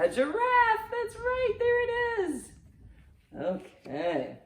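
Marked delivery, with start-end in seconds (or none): 0.0-2.5 high, bright cheer of triumph; excited cheer. Real, not acted. Grandma cheering the giraffe answer for Grandma Lou.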